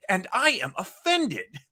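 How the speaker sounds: a slow, lightly hammed-up wounded line; mock Chekhov delivery. Podcaster mocking Chekhov's line readings, a slow mild hammy imitation. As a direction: drag out the offended tag like a mock Chekhov. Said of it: "he always delivers lines like that".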